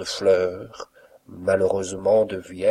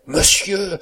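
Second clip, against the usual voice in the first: high, loud, falling cry; disarmed exclamation; 10 semitones higher, 6 dB louder than usual. A narrator's reading. Valet caught mimicking his master, disarmed high cry that falls. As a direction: exclaim high, then let it drop. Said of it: "dit le frontin désarmé".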